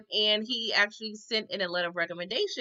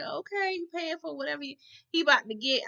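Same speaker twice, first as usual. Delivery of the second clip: high mock; 6 semitones higher than usual. Vlogger mock remark.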